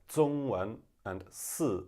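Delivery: southern Chinese accent, zh and sh flattened to z and s; southern China accent. Shown as a demonstration. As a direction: say "zongwen" and "si", southern style. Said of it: "in southern China".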